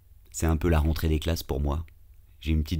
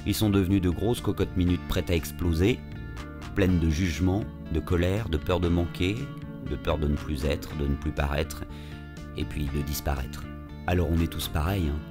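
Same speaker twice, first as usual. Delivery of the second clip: calm reflective narrator voice; story narration. A narrator's reading. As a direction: tell it like a podcast intro. Episode narration over music.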